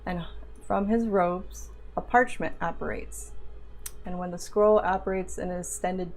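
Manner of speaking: game master narration. Acted. DM narrates opening scene.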